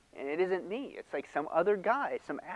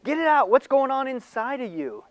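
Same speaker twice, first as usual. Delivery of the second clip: higher and louder, pushy coaxing; mock therapist urging; 9 semitones higher, 5 dB louder than usual. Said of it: "they'll say".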